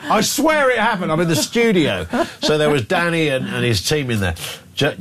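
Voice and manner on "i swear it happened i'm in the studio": imitated protest, pitched up high; high, lightly acted insistence; insistent caller. Phone-in caller swearing the talking dog story is true, insistent.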